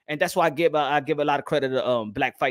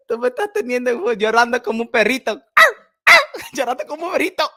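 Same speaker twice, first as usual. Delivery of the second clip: laughing along; 8 semitones higher, 5 dB louder, much faster than usual. Real, not acted. Laughing, repeating the lyric.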